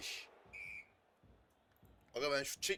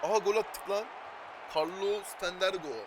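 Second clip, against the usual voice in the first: high screaming goal call; screaming football commentator; 12 semitones higher, 7 dB louder, much slower than usual. Pretend. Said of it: "goal celebration commentator style".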